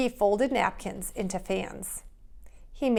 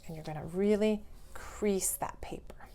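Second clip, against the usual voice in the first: whispered instruction; 6 dB quieter than usual. Real, not acted. Teacher demonstrating folds.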